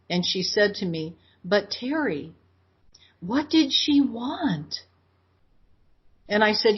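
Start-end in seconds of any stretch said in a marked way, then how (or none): 1.5-4.8 high, slow and pleading, as if through tears; retold crying plea. Crying mother asks her daughter what the ghost wanted, high and slow. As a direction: ask it slowly, in a higher voice, as if close to tears. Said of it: "my mom was crying".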